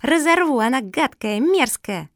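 dog being carried off, squealing; furious squeal. A narrator's reading. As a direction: rage at the tortoise while held back. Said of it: "визжала Куки".

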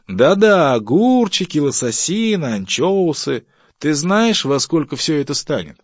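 high, loud sarcastic enumeration; mocking list. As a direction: throw the list back at the wife. Husband mocks wife's shopping list. (громко, с издёвкой)

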